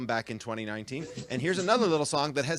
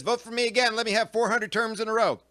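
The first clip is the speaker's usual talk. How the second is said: newt voice; 5 semitones higher than usual. Pretend. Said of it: "A newt says".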